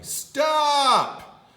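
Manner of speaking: shrieked stop; loud yell. Acted. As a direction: scream stop at him. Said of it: "yelled very loudly".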